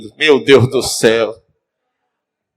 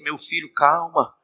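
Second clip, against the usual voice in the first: calming; 7 dB quieter, slower than usual. Acted. Wife calms angry husband.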